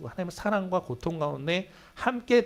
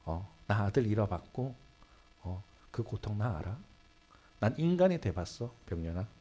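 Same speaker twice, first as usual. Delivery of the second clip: tender voice of God; 6 semitones lower, 5 dB quieter than usual. Retold or imitated. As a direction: speak as a father who knows the pain. God answering the suffering pastor. (고통받는 목사에게 위로하는 하나님처럼 부드럽고 느리게)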